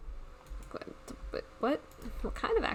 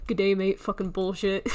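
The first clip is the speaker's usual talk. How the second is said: loud, badly faked British accent; 6 dB louder than usual. Streamer mocking a viewer's English accent, bad fake British. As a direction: put on a botched British accent for a joke. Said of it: "That's not even British".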